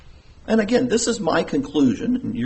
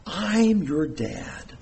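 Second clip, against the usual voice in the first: tender fatherly assurance; 4 dB quieter, much slower than usual. Retold or imitated. Father stressing caring relationship.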